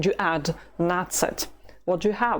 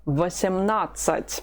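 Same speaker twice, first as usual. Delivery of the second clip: Восемнадцать with the stress on НАД, the third syllable. Shown as a demonstration. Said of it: "No, it's on the third syllable".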